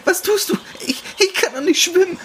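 terrified she cannot swim; panicked shriek. Acted. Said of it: "brüllte sie".

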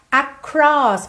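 "Across" with a curled R tied into the O. Shown as a demonstration. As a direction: curl the R inside "Across" straight into its vowel. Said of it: "esse R é enrolado". ("Across" com R enrolado)

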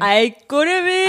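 drawn-out Saarland greeting, slow; Saarland dialect. Shown as a demonstration. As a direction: say it slowly in broad Saarland dialect. (saarländischer Dialekt, langsam)

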